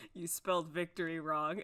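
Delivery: low, dejected mock-glum voice; sad, solemn. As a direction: imitate someone glumly pointing out a mistake. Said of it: "like, sad".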